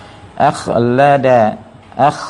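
อัค with a rasping, bubbling back-of-throat kh; water-boiling kh. Shown as a demonstration. Teacher shows reciters the kh, like boiling water. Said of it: "มันมีเสียงน้ำเดือน".

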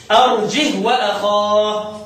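drawn-out recited phrase; slow recitation. Shown as a demonstration. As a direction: recite slowly, lengthening the vowels. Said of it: "عاصم وحمزة زي بعض".

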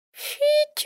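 high thin whistle. A narrator's reading. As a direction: whistle it like a weary pet. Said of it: "просвистел".

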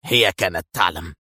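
low-pitched, resigned delivery; sighing. A narrator's reading. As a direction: say it as if on a sigh. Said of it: "تنهد قائلا". (متنهدًا بصوت منخفض)

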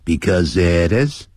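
because it is linked smoothly, is running into it; because it is said as one linked phrase; linked words. Shown as a demonstration. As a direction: glide because it is together with no break. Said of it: "你看产生连音".

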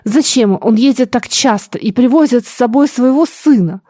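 a touch of theatrical lament; tragic actress tone. Acted. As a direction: ask like a tragic actress, lightly. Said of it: "Тоном трагической актрисы". (тоном трагической актрисы)

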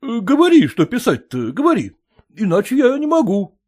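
a surprised landowner asking back; puzzled master. Acted.

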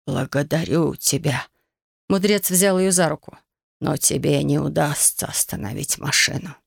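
put-on a weary old man speaking; old sage voice. Old sage answers Yumi.

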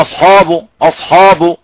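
أصحاب with thickened hamza and ح; imitating wrong reading. Teacher mimicking a reciter who thickens everything. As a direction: puff up every letter of أصحاب. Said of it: "فيفخم الهمزة ويفخم الحاء".

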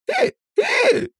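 two very high squeaky hiccups; bursting hiccups. A narrator's reading. Shaman tries to speak but only hiccups, high and sharp. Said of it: "разразился иканием шаман".

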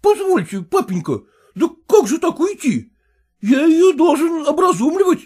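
put-on high, pleading, indignant voice of a fussy young husband; whining son-in-law. Son-in-law protesting to his father-in-law, high whining indignation. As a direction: squeal your outrage up high.

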